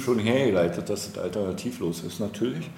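tongue-in-cheek, falsely self-assured; ironic. Acted. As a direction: sell "alternativlos" as a sarcastic given. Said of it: "man kann jetzt Ironie".

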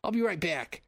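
high-pitched put-on Boston accent; hammed-up Boston goblin voice; Bostonian goblin. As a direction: excuse yourself as a Boston goblin. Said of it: "is one Bostonian goblin".

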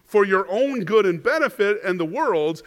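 a hint of a firm teacher correcting a friend; mild earnest rebuke; Jesus rebuking Peter. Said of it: "So, "Satan, get behind me".

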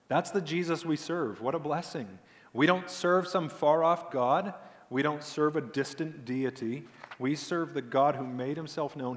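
preacher rousing the congregation about Jesus; fervent preaching. Acted. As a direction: proclaim it, climbing in strength. Preaching with rising force.

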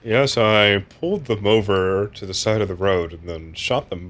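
calm and remote, like a clinical murderer; serial killer voice. Acted. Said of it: "perfect serial killer voice".

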